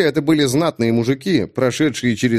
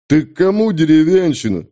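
gruff soldier; 3 semitones higher, 4 dB louder than usual. Acted. Грубый окрик солдата.

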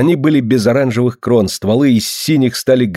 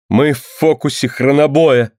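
higher, slow, mournful outcry; sorrowful; 4 semitones higher than usual. Acted. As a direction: cry it out in sorrow. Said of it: "горестно телепатировал Лана".

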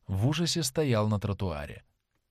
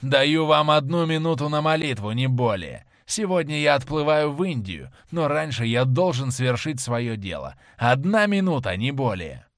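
furious ultimatum; 3 semitones higher, 4 dB louder than usual. Acted. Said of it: "закричал человек".

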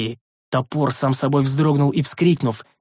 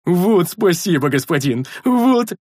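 higher, louder, slow delighted bellow; joyful bear roar; 5 semitones higher, 4 dB louder, slower than usual. A narrator's reading. Rikar bellows thanks to his master, overjoyed. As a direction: roar with glee like a happy bear.

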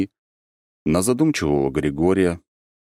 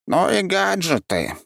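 high, slow resigned sigh; sighing creature; slower than usual. A narrator's reading. Defeated creature sighs at the archmage, high and slow. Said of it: "вздохнул Ли".

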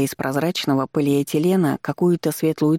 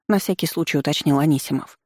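plain reading voice

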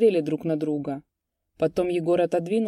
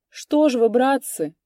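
higher, loud plaintive appeal; plaintive cry; 7 semitones higher, 7 dB louder than usual. A narrator's reading. Egor pleading with silent peasants, plaintive. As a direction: cry out pitifully. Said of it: "жалобно воскликнул Егор".

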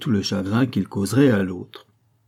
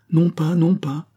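slow, higher, louder insistence; firm slow no, raised pitch; insisting; 8 semitones higher, 4 dB louder, slower than usual. A narrator's reading. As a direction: press the refusal slowly. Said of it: "insista Pitou".

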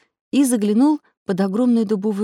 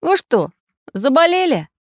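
loud, higher incredulous question; surprised; 9 semitones higher, 5 dB louder than usual. A narrator's reading. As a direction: ask it in disbelief. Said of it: "удивился Самоделкин".

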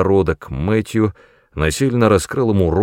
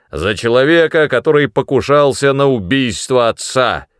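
loud, mocking toast; sarcastic toast; 6 semitones higher, 5 dB louder than usual. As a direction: raise a scornful toast. (издевательский тост)

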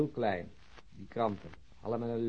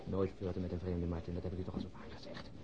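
much softer teasing whisper; whispered aside; 5 semitones lower, 7 dB quieter than usual. Acted. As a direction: slip him the joke under your breath. Teasing aside as stranger approaches. (gefluisterde plagerige opmerking)

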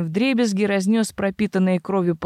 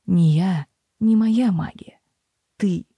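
cold whisper; slower than usual. Acted. Sebastian's cold verdict.

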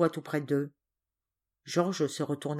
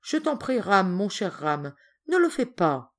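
pleading. Acted. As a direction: beg a dear friend to stop. Girl begs Ram not to.

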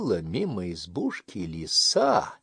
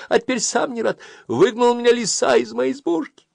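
a touch of crying hare; 13 semitones higher, 9 dB louder than usual. Acted. Заяц жалуется барану.

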